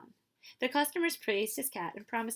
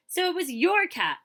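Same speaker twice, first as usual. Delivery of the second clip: higher, louder amazed merchant; surprised realization; 9 semitones higher, 9 dB louder than usual. Acted. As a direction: realize it with wide-eyed surprise. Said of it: "his eyes widening".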